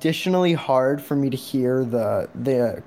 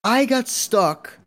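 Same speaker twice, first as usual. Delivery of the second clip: stressed retelling; 6 semitones higher than usual. Real, not acted. Stressed subway story.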